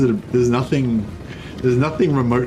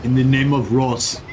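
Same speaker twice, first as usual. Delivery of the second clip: Viking voice; 3 semitones higher, slower than usual. Pretend. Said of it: "what's something Viking-y that I could say".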